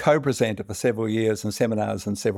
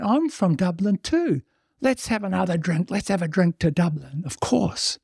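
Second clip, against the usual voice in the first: tipsy Irish barfly; 8 semitones higher than usual. Acted. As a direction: raise a glass like a merry drunk. Drunk Irishman in bar joke.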